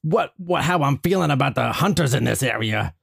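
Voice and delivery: muddled cartoon animal impression; Donald Duck. Indignant cartoon patient complains about hunters, cartoon impression. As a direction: loose cartoon voice with r's said as w. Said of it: "Donald Duck".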